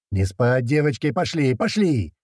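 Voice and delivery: high rallying call; shouted command. A narrator's reading. Hurt comrade to the squad on arrival, shouting them on. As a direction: chivvy the squad along, voice rising. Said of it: "закричал Туман".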